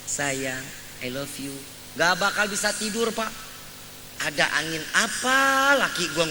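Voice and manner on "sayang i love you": much lower, softer sweet nothings; whispered endearment. Retold or imitated. Husband whispering to his wife at night, low and soft. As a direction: breathe it softly into her ear. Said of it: "bisikin terus istri".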